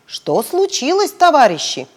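a touch of official sternness; policeman. Acted. Policeman questioning the girls, stern voice.

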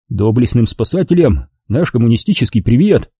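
cheerful shout. Acted. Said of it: "жизнерадостно заорал я".

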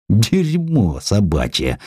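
a juicy, unhurried swear word; relished curse. Acted. Suvorin swears with relish about Gratsiansky. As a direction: spit it out slowly, savouring each word. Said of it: "сочно выговорил он".

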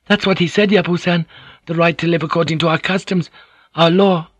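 high-pitched, deferential woman's voice; earnest interpreter, pitched well up; Mariko, earnest and unsettled. Acted. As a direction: insist respectfully on what was said. Voices trembling Mariko's reply.

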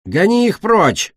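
high, loud, slow roar. A narrator's reading. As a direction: bellow it from inside the tower. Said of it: "заревел кто-то изнутри". (громкий медленный рёв)

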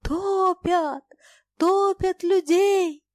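high, loud, drawn-out bellow; bellowing roar. A narrator's reading. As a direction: roar the alarm, stretching the words. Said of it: "ревел басом".

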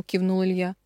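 usual speaking voice

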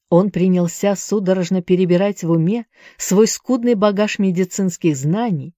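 plain reading voice

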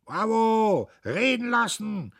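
high, loud calls from the crowd; supporters' shouts. A narrator's reading. Nationalists back Dietrich, shouting approval. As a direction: call out to back the speaker.

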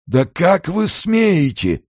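high, slow, indignant squeal; outraged. A narrator's reading. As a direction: recoil in scandalised outrage. Outraged man confronts Kern.

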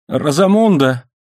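drawn-out plaintive appeal; plaintive cry. A narrator's reading. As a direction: call her name piteously. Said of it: "жалобно воскликнул Лайонель".

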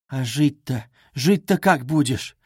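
exclaiming. Acted. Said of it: "восклицала Соня".

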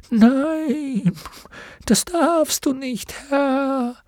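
last strength to forbid it; urgent horse refusal. Acted. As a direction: Artax refusing the amulet, urgent and high. Artax refusing the amulet.

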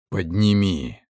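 hollow voice in the mind commanding; whispery telepathic voice. Acted. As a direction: command him from inside his head. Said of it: "Голос раздался в голове".

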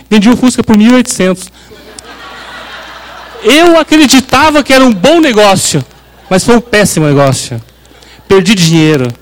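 laughing at his own bad deal. Real, not acted. (rindo de verdade enquanto fala, mais alto)

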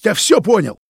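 loud, high furious mocking yell, slow at the end; enraged accusation. A narrator's reading. Roman accusing Vitya of taking money, enraged sneer. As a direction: sneer it in rage. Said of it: "от бешенства дёргалась щека".

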